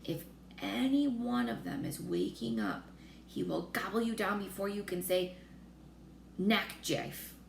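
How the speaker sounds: lightly voiced giant, matter-of-fact warning; a giant's calm warning, slightly altered voice; friendly giant voice warning; BFG. BFG warns about giants.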